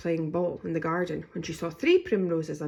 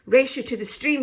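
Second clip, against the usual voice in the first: high, louder squeak; 7 semitones higher, 8 dB louder than usual. A narrator's reading. Daisy challenging her brothers, squeaking. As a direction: squeak it as a playful dare. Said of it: "squeaked Daisy".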